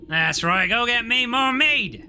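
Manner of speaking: blustering bear. Acted. Bear yells after the witch.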